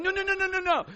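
high, loud rapid-fire denial; acted flustered alarm; panicked protest. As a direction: frantically hush a screaming kid. Acted reply to screaming child.

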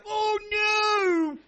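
high, loud mock wail of kids; hammed-up childish cry of dismay; kids' wail. Kids recoiling from mom's purse, high mock wail. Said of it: "the kids would be like".

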